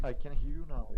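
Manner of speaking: loud distorted call audio; garbled voice over a bad line; glitching audio. Real, not acted. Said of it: "your audio is cutting".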